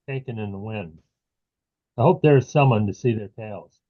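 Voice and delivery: measured poetry reading with pauses between phrases; unhurried recital of a short poem. Acted. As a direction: read the poem line by line, letting each image settle. Reads own poem aloud.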